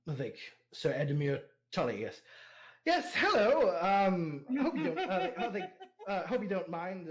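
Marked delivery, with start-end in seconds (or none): 2.8-7.1 lord's eager greeting. Acted. Player voices Edmure greeting hosts.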